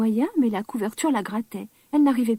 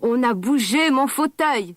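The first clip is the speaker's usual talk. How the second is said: louder, slow, big booming bear; papa bear's big voice; 5 dB louder, slower than usual. Acted. Papa bear finds his armchair moved, slow loud big voice. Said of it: "s'exclama papa ours de sa grosse voix".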